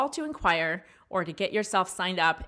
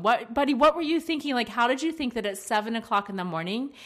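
mild exasperated parent; 2 semitones lower than usual. Retold or imitated. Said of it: "exactly like I said it on the microphone".

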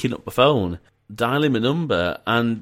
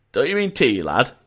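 put-on Yorkshire accent; 2 semitones higher than usual. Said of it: "that was an awful impression".

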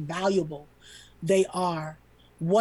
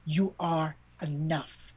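slow reassurance; 3 semitones lower, 5 dB quieter, slower than usual. Real, not acted. Speaks to listeners directly.

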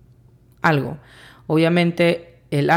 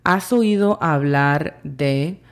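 slow translation. Shown as a demonstration.

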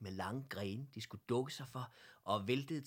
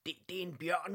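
stammering, higher and louder in shock; surprised exclamation; 8 semitones higher, 7 dB louder, faster than usual. A narrator's reading. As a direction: blurt it out, startled. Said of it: "udbrød hr. Olsen overrasket".

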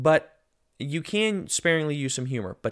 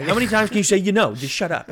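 loud, high exasperated self-scolding; 8 semitones higher, 7 dB louder than usual. Retold or imitated. Speaker scolding his recorded self over a verbal tic, loudly exasperated. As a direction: snap at yourself in mock exasperation.

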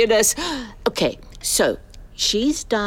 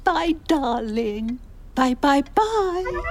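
fond goodbye; 5 semitones higher than usual. Acted. Signing off call to son.

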